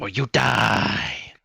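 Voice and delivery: slow, menacing mob boss line; drawn-out gangster threat; mock mafia threat.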